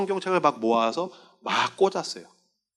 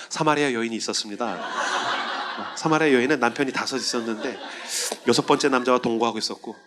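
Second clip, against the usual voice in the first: laughing; 6 semitones lower, 4 dB quieter than usual. Real, not acted. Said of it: "laughing at own story".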